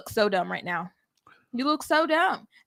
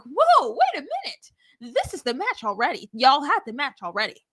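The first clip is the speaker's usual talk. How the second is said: mock surprise; 4 semitones higher than usual. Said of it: "I'm like".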